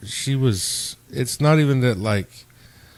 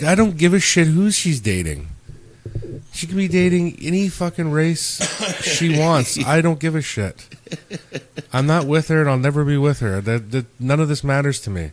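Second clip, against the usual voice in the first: higher-pitched, emphatic acting out of a protest; retold exasperation; 5 semitones higher, 3 dB louder than usual. Telling ex's friend her dating is irrelevant, exasperated=. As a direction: replay your fed-up insistence that you don't care.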